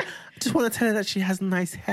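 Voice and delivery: a hint of an innocent kid; imitating young son. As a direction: mimic a child explaining himself. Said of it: "And he was like".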